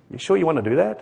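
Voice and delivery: soft little voice of conscience; gently question, voice slightly dropped; little inner voice. Acted. Conscience questions someone telling a lie, little inner voice. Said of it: "you hear that voice and says".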